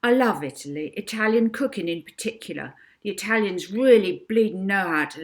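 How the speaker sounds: a hint of a loud, gushing Edna; lightly voiced Edna. Edna telling Molly she loves Italy, mildly gushing. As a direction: gush about Italian food. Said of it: "Edna raving about Italy".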